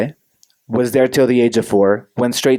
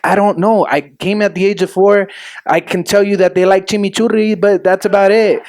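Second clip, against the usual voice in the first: sheepish answer; 8 semitones higher than usual. Retold or imitated. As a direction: admit you barely know. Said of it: "I was like".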